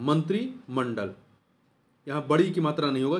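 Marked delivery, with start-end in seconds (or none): 0.0-1.1 slow demonstration word. Shown as a demonstration. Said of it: "छोटी की मात्रा होती है".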